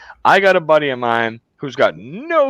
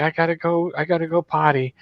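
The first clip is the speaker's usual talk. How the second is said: lightly voiced secretary, pitched higher; imitated secretary; 5 semitones higher than usual. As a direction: mimic the secretary excusing herself. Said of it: "She's like".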